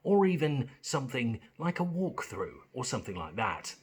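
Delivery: neutral corporate British ad read; generic British accent. Shown as a demonstration. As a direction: sell it like a British Gas advert. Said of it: "This is my generic British voice".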